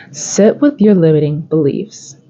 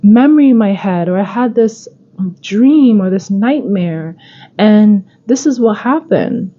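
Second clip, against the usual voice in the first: put-on higher child's voice, pleading; child telling mommy about a bad dream, higher and urgent; upset child; 4 semitones higher than usual. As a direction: play her little kid, upset and rushing. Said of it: "and they're like".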